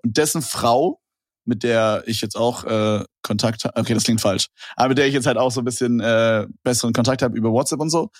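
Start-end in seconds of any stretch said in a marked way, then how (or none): 1.4-3.7 choking on spit mid-sentence. Real, not acted. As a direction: speak while choking on saliva. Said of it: "ich hab mich grad verschluckt".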